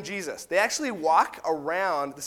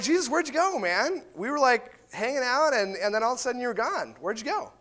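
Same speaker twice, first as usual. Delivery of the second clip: mock bewilderment; 4 semitones higher than usual. Crowd voiced questioning Jesus.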